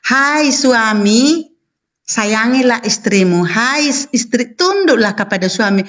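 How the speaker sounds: reciting scripture slowly, word by word; the wife quoting the verse slowly to her debate opponent; slow verse recitation. Shown as a demonstration. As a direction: lay out each phrase of the verse with slow weight. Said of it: "Begini itu ayatnya".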